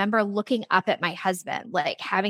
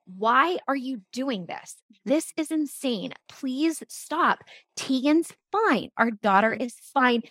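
slow, higher-pitched imploring; pleading husband; 4 semitones higher, slower than usual. Retold or imitated. Husband urging wife to quit nursing, retold exasperated plea. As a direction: beg her to stop, spacing out each phrase.

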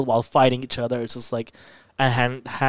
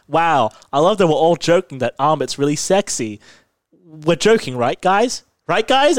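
mock-nervous voice climbing higher on each check; needy seeking of reassurance; 3 semitones higher, 4 dB louder than usual. Fan checking that everyone is only joking, mock-anxious. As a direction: imitate jokers growing unsure, pitch rising. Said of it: "Some people are like".

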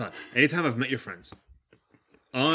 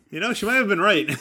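mock realization; 8 semitones higher, 4 dB louder than usual.

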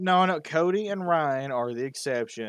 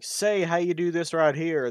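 put-on local Southern accent; 3 semitones higher, slower than usual. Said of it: "people I've met down here be like".

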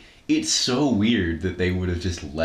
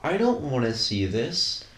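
exasperated; 11 semitones higher than usual. Real, not acted. Exasperated at the movie.

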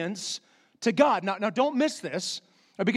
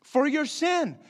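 voicing God; 6 semitones higher than usual. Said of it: "So God's saying".

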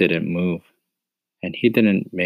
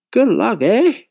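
dry; 6 dB louder, slower than usual. Acted. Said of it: "voice had a way of sounding very dry".

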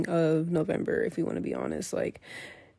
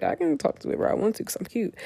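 high, quick, full of herself; cocky; 5 semitones higher, faster than usual. Retold or imitated. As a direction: toss it off like a flirt who knows she's cute. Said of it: "'cause I was cocky".

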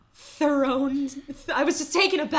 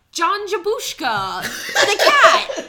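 laughing; 8 semitones higher, 13 dB louder, slower than usual. Real, not acted. Laughing at invented cast name.

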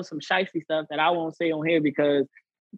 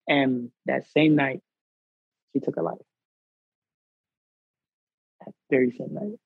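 somber and slow; 3 semitones lower, slower than usual. Real, not acted. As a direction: let the loss weigh on each word. Telling of a suicide.

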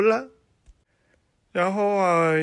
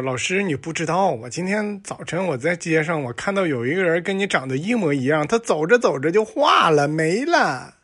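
higher, louder excited schoolboy tale; student excuse; 4 semitones higher, 4 dB louder than usual. Acted. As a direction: spin a wild excuse to the teacher, getting louder. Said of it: "他跟老师说".

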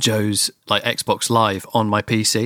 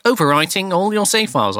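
higher game notification voice; robotic game voice; 8 semitones higher than usual. Retold or imitated. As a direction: read it like a system message. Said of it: "it was just like".

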